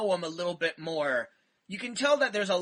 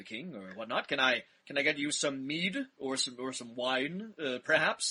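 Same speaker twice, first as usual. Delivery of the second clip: low, soft, level, pleasant conversational tone; 5 semitones lower, 5 dB quieter than usual. Describing the other troll they met, imitating Hargan's pleasant conversational tone. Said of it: "a pleasant conversational tone the entire time".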